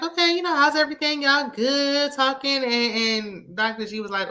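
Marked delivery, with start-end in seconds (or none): 0.0-2.6 imitating Quad. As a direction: drag the question out, all sugar. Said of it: "Quad was like".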